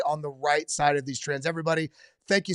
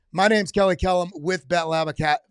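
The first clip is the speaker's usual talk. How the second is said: louder announcer-style intro retake; restarting the line; 5 dB louder than usual. Shown as a demonstration. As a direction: punch the intro like a promo read. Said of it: "Let me say that again 'cause I'm actually recording this".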